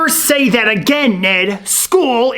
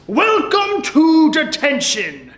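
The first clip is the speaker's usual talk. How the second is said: slow, drawn-out schoolmaster welcome; measured detention-master voice; strict teacher; 3 semitones higher than usual. Acted. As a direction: greet the pupils with stern relish.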